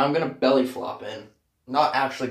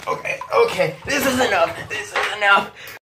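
laughing; 8 semitones higher than usual. Real, not acted. Laughing in ice water.

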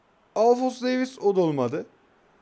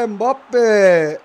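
very loud shout of the name; goal shout; 3 semitones higher, 13 dB louder than usual. Real, not acted. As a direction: scream it as the ball goes in. Goal-scoring moment. (gol sevinciyle bağırarak)

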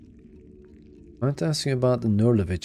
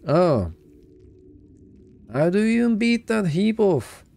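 astonished; 10 semitones higher, 4 dB louder than usual. Real, not acted. Reacting to worms crawling away.

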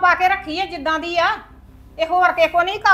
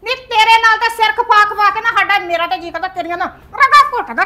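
angry scolding; 3 semitones higher, 5 dB louder than usual. Acted.

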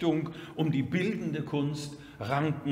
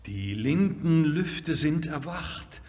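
measured lyrical reading with strong swells; poem recitation; 4 semitones lower than usual. Acted. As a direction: declaim the exclamations, then ease into consolation.

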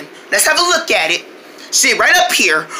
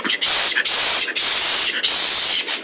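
shushing; much slower than usual. Acted. Hushing friend.

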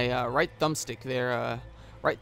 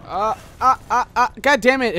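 high nasal-free nerd squeal, louder; squeaky exasperated nerd; 9 semitones higher, 11 dB louder than usual. Retold or imitated. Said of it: "I had to go into my nerd voice there".

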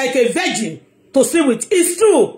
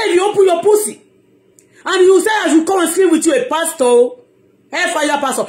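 raised, mocking preacher quote; mocking the pastor; 5 semitones higher than usual. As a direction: mimic the boastful pastor. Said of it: "that's how he said it".

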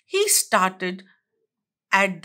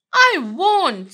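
squeaky duck; 5 semitones higher, 4 dB louder than usual. A narrator's reading. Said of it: "squeaked the duck".

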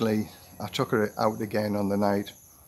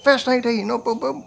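much higher, retold indignant squawk; indignant outburst; 13 semitones higher than usual. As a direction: mimic the friend blowing up in disbelief. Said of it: "my friend just went off".

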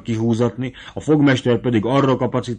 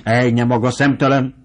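mild indignation; 3 dB louder than usual. Acted. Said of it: "Esett ki a sodrából".

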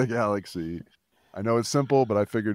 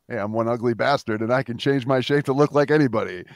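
brash, louder monster voice; boastful beast voice; 4 semitones higher, 6 dB louder than usual. Acted. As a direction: boast like a cocky ugly beast. Beast speaks in his plan.

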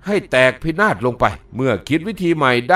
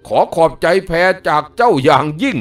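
mocking call; 3 dB louder, slower than usual. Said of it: "พร้อมตะโกนว่า".

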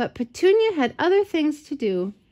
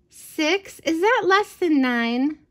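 puzzled asking; 5 semitones higher than usual. Acted. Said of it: "asked Ida".

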